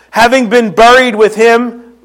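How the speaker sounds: buried said as Philly berried, bear-eed; Philly pronunciation of buried; Philly accent. Real, not acted. Pastor points out his Philly accent on buried. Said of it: "that's my Philly accent".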